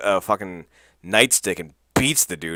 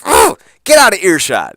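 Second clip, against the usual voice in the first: much higher and louder, squeaky; high-pitched mock retort; mock scolding; 12 semitones higher, 13 dB louder than usual. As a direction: snap it in a hammed-up high voice. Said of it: "And Sanjay's like".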